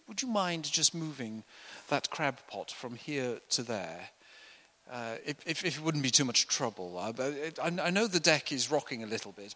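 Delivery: lightly voiced prim gentleman, mild and dithering; a hint of a fussy, apologetic toff; overly polite posh request. Preacher mocking disciples asking too politely. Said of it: "they're not softly spoken".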